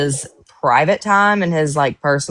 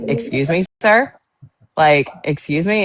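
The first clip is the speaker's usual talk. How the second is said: mock indignant. Mom to her rude son, mock indignant. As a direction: play it scandalized. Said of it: "And I was like".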